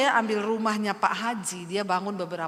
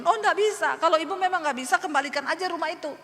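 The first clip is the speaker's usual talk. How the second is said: raised, higher-pitched retort, imitated; angry refusal; 7 semitones higher, 3 dB louder, faster than usual. Pak Haji rejecting her plea for half payments, imitated anger. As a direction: act out an indignant creditor refusing. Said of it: "Pak Hajinya marah-marah".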